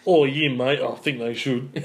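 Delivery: badly imitated Aussie accent; bad Australian accent. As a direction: put on a hammy Australian drawl. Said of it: "worst imitating accent of an Australian".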